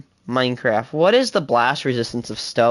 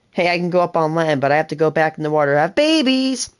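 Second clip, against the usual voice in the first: 1 quoting a video; 3 semitones higher, much faster than usual. Retold or imitated. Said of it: "I love, uh, Bill Wirtz".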